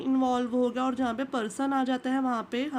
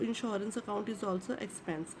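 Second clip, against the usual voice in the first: slow, "also expense" spelled out; slow repeat; 2 semitones lower, 5 dB quieter, much slower than usual. Shown as a demonstration. Teacher repeating to students that insurance is an expense, slowly. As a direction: say it again slowly for notes.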